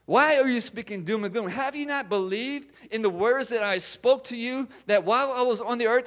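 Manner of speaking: insistent rebuke, building in pitch; reprimanding. Acted. Jesus questioning disciples who did not believe, reprimanding. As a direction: scold them with pointed questions. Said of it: "reprimands them for the conversation".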